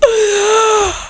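high, drawn-in wailing gasp; long gasp. Real, not acted. Player just lost in game, long gasp. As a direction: suck in a long anguished breath.

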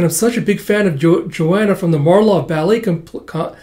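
words trip and break off mid-name; tongue-tied stumble. Real, not acted. Reading fan line aloud, tripping over the ballet company name. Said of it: "sorry, I'm tripping over my tongue here".

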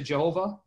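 "Jehovah" said as juh-HO-vuh; English J at the start of "Jehovah"; anglicized Jehovah. Shown as a demonstration. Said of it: "popular anglicized way of saying it".

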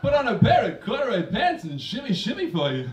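lightly voiced Walken, suggestive hotline chat; a hint of Walken teasing a caller; Christopher Walken impression. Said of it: "my impersonation of Christopher Walken had he been working for a sexual hotline".

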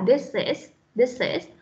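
"this is" joined, s flowing into the vowel; teacher modelling a joined "this is"; linked sounds. Shown as a demonstration. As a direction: link "this" into "is" as one unit. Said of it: "bắt từ cuối cùng của từ trước".

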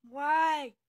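shouted, indignant why; loud protest. Real, not acted. Protesting to her friends, loud indignant shout. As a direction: yell it out in protest.

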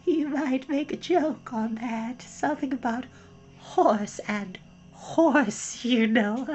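small high whispery gnat; tiny gnat voice. A narrator's reading. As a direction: squeak it like a tiny insect at her ear. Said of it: "an extremely small voice".

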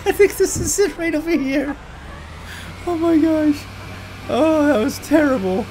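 high laughing apology; giggling apology. Real, not acted. Gamer runs over a lady, high giggling apology. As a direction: giggle through the sorry.

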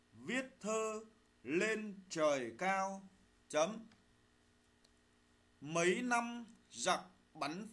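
slow dictation, phrase by phrase; dictating. Shown as a demonstration. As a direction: read it out slowly for pupils to write. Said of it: "lắng nghe thầy đọc bài".

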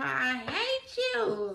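slow, spiteful "I hate you"; mock hateful voice. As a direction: voice their hatred slowly. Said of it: "they call".

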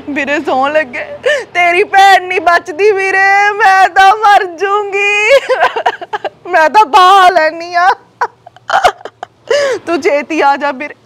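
slow, crying plea; tearful begging. Acted. Sister begging her brother on the phone to come quickly, crying. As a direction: beg him to come, half sobbing.

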